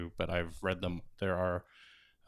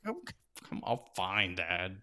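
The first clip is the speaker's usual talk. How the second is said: put-on grudging kids; 6 dB quieter than usual. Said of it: "And they're like".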